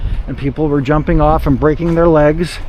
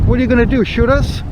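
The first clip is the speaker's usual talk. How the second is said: incredulous; 8 semitones higher than usual. Retold or imitated. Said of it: "I'm like".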